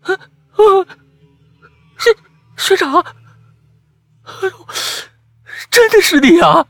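尖高带哭腔，结结巴巴; 惊魂未定地哭叫出来; 吓得磕巴. Acted. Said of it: "小白明显的被我吓得不轻，说话都磕巴了". (小白被师兄吓坏了，带着哭腔磕巴地喊)

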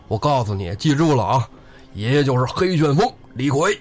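lightly voiced outlaw declaring himself; the real Li Kui. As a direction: make the name a mild threat. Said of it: "李逵说".

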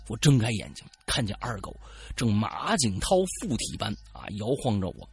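normal talking voice

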